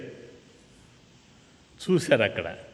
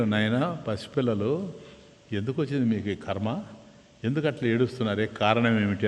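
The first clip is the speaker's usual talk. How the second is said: softer, lower, kindly elder voice; gentle old man; 4 semitones lower, 6 dB quieter than usual. Acted. Passing old man softly asking the crying boys why. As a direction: ask like a kind grandfather, softly.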